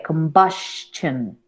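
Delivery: combustion with the -stion sounding almost like a T; nearly a T before the final syllable; model pronunciation. Shown as a demonstration. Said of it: "Casi, casi diría una T".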